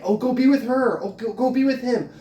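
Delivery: high, sneering mimic of the hecklers; mocking hecklers. Ranting vlogger mocks Costco hecklers in a high snide voice.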